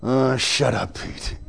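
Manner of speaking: annoyed classmates grumbling quietly; under their breath. Retold or imitated. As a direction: roll your eyes and mutter it. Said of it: "everybody's going".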